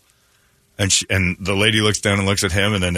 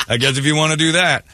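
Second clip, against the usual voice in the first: wary ooh; 7 semitones higher than usual. Retold or imitated. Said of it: "I'm like".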